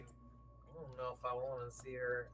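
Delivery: slow, drawn-out imitation; imitating Maria. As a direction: mimic her hesitant way of saying it. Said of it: "she does that thing where she's like".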